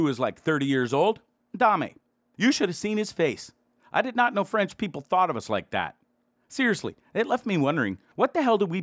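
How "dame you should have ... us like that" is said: a light put-on French accent, a touch higher; English words in his best French accent. Portuguese tourist to a rude French father, mock polite in a French accent. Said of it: "in the most perfect French accent I had".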